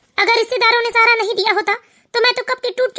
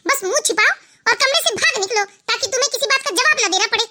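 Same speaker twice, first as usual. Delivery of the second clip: higher, cutting sarcasm; taunting scorn; 3 semitones higher than usual. Acted. Wife taunting husband as a coward, scornful. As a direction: sneer at his excuses.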